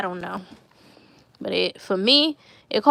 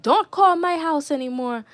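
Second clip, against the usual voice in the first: higher mock-scolding Caribbean dad; Caribbean accent; 5 semitones higher than usual. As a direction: imitate a Caribbean father warning off a caller. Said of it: "going off with his Caribbean accent".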